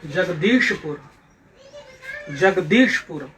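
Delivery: जगदीशपुर spelt out clearly, long दीश in the middle; careful pronunciation. Shown as a demonstration. Teacher showing pupils how जगदीशपुर is pronounced, careful and clear. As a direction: model जगदीशपुर with weight on दीश. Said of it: "इसका उच्चारण होगा".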